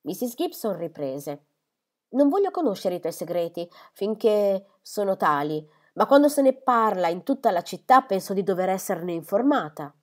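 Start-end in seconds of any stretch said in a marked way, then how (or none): 2.1-9.9 firm motherly demand, louder; mother demanding to be informed; insistent mother. Acted. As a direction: insist on being told.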